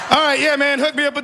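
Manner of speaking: laughing through the words; resigned laugh while talking. Real, not acted.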